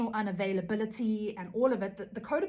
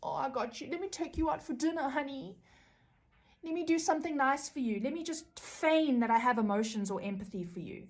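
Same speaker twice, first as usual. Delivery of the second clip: higher, sugary fake affection; higher, faked tender offer from the narcissist; mock sweet narcissist; 5 semitones higher than usual. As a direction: coo it with put-on kindness. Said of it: "play the victim and then maybe give them a bit of attention".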